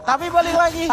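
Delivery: laughing through the words; chuckling as he speaks. Real, not acted. Laughing while returning to cast.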